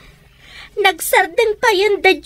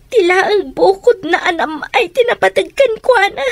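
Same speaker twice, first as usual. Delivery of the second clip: crying. Acted. Daughter laments her mother.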